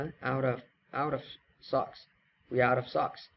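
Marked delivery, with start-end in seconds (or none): 0.0-1.2 "out of" run together as one linked unit; linked pronunciation. Shown as a demonstration. Teacher showing learners how to read it linked, "out of" joined together. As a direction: link "out" straight into "of". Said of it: "Đọc nối là".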